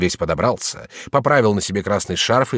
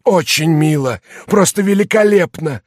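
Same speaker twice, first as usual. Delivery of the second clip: едко, громко и высоко; язвительная похвала; sarcastic; 8 semitones higher, 5 dB louder than usual. A narrator's reading. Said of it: "северонемецким акцентом, сиплый". (саркастично, сипло)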